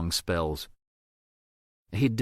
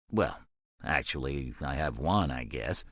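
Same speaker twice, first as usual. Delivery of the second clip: hesitant quiet; 6 semitones lower, 5 dB quieter than usual. A narrator's reading. Kevin reluctantly admits a source.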